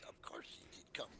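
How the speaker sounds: put-on lightly accented, courtly drow; suave drow. Drow tells newcomers of his companions, lightly accented and suave.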